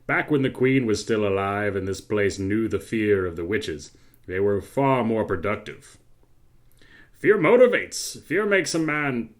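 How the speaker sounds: evil villain monologue. Acted. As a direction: gloat like a tyrant king. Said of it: "My evil monologue".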